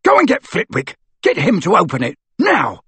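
loud, high barked command; angry order. Acted. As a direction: bark orders at her. Amycus ordering angrily.

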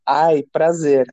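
slow drawn-out Ai of pleasure; moan of pleasure. Retold or imitated. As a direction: stretch the ai like pleasure. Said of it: "é o famoso".

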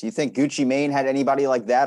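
normal talking voice

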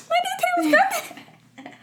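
put-on very high, slow little-kid voice; slow, high toddler voice; childlike answer. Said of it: "I'm like".

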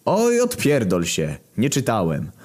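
high, slow indignant snap; huffy and offended. Acted. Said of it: "oburzyła się głowa kościoła". (oburzony papież)

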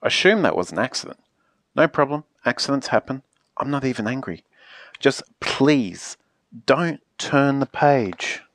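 low, measured forgiveness, not angry; calm request. Acted. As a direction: let it go, then ask patiently. Book character politely lets it go.

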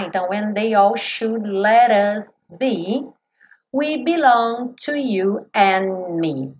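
slow demo with flap in "let us be"; flapped T. Shown as a demonstration. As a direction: say "let us" like "lerus". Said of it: "tem o som como na palavra garoto".

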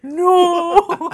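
high, loud laughing no. Retold or imitated. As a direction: cry it out through laughter. Veronica's horrified reaction, retold.

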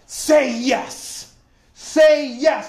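a gently urging inner voice; Holy Ghost voice. Retold or imitated. The Holy Ghost prompting him inside, mild urging. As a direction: let the second say yes rise, urging. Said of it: "It was the Holy Ghost said".

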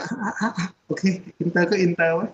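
mock reluctant consent through laughter; laughing surrender. Father caving on international school for his child, laughing mock surrender. Parent giving in, told laughingly.

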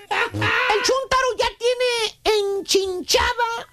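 words squeezed out through laughter, slow; laughing. Real, not acted. Host still laughing as he tells the joke, slow and broken. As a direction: laugh while you talk.

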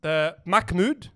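"Mahmoud" with a k, as "Mak-mood"; common mispronunciation. Retold or imitated. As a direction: slowly turn the h of "Mahmoud" into a k. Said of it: "There's another common one".

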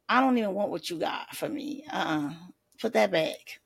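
lightly voiced dismissive refusal; a hint of brushing off the gift; ungrateful. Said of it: "That's how it sounds".

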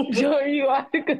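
laughing through the words; crying with laughter. Real, not acted. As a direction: try to talk while cracking up. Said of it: "I'm crying".

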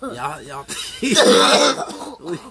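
loud, laughing cocky wolf. Retold or imitated. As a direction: taunt them like a cocky wolf. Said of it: "He's like".

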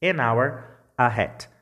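"An hour" said with a silent h, then "a hat" with the h sounded; teaching pronunciation. Shown as a demonstration. Teacher shows students the silent H, clear model pronunciation. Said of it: "Duas palavras, ambas começadas por H".

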